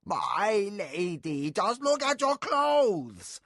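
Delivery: put-on high, slow, scolding old nurse; shrill-free high scolding nursemaid voice. A narrator's reading. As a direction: fuss like an exasperated old nurse.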